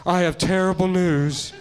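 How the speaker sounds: slow, solemn aide breaking terrible news; a hammed-up solemn announcement; grave bad news. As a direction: deliver it slowly like a tragedy. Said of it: "someone's like".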